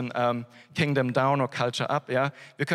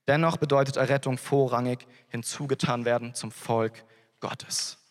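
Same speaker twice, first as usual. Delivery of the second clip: reading a quote. Shown as a demonstration. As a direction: read the citation out carefully, weighing each clause. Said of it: "mit einem Zitat ab". (langsam und getragen vorgelesenes Zitat)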